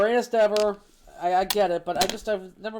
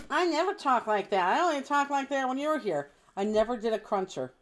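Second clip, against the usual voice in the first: high, exaggerated local twang; mock regional accent; 5 semitones higher than usual. Real, not acted. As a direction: ham up the hometown accent. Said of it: "that's how you talk".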